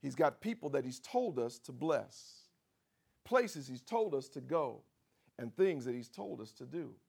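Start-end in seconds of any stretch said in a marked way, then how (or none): none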